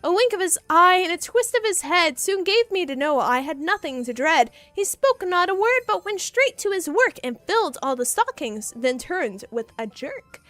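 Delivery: rhythmic read-aloud of the poem; story narration. Acted. Streamer reading the poem to chat, storyteller voice. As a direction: lilt through the verse. Rereads the verse.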